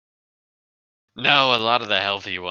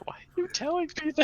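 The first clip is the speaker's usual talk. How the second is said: character voice. Acted. Voicing a character in a scene.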